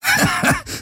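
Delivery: short unvoiced mocking chuckle; a little scornful laugh; small breathy laugh. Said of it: "Heska gab ein kleines Lachen von sich". (kurzes höhnisches Lachen)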